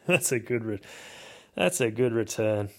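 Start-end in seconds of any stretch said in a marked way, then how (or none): 0.1-0.8 laughing through the words. Real, not acted. Repeating his own joke to the viewers, laughing. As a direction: chuckle while repeating yourself.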